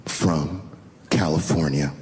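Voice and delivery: slow, low, drawn-out condescension; condescending. Retold or imitated. Offended wife answering where they are from, condescending. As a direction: spell it out haughtily, word by word. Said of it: "she goes, very condescendingly".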